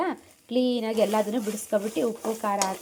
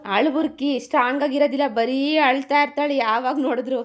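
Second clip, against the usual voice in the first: teasing crybaby; 4 semitones higher, 4 dB louder than usual. Real, not acted.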